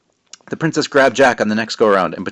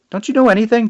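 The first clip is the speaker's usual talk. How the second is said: exasperated; 13 semitones higher, 6 dB louder than usual. Acted. Exasperated Jack.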